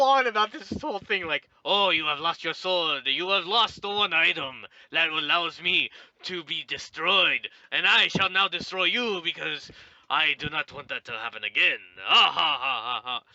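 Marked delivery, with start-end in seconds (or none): 1.6-13.2 Aku voice. Retold or imitated. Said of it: "him and Skiddly Douche are talking".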